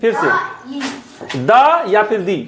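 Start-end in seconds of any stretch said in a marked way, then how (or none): 1.4-2.4 द as "duh", दी as "dee", said slowly; two forms of "the". Shown as a demonstration. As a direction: slowly contrast द with an "uh" and दी with an "ee". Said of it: "द बोलना है".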